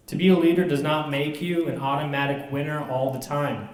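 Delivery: a brisk, lightly formal recited speech; speech read aloud. Acted. Comedian reading his leadership speech to students, lightly formal reading. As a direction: read the prepared text straight through.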